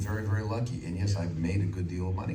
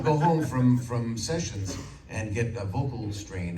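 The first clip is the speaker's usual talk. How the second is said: ordinary delivery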